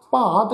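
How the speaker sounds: ਭਾਂਤ with a nasal long aa; nasalised vowel. Shown as a demonstration. Teacher showing the congregation the reading, ਭਾਂਤ with nasal long aa. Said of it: "ਕੰਨਾਂ ਉੱਪਰ ਬਿੰਦੀ ਲਗਾ ਕੇ".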